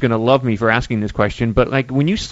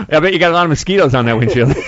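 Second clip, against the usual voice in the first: words through laughter; laughing; 4 dB louder, faster than usual. Real, not acted. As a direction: say it while still laughing. Laughing at windshield joke.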